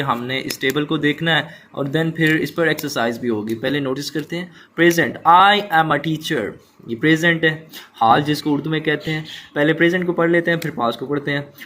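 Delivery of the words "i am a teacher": slow, careful reading of the example; slow classroom read-aloud. Shown as a demonstration. Teacher reads example slowly.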